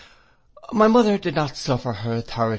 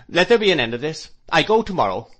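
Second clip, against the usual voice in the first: indignant; 6 semitones higher, 7 dB louder, faster than usual. A narrator's reading. Miss Murdstone repeats, offended.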